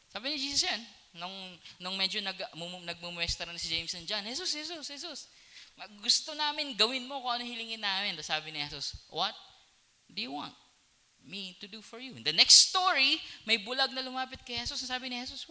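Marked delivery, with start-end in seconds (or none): 4.2-8.2 pestering disciples. Acted. 9.1-12.1 gentle question. Acted. Jesus asking, soft and gentle.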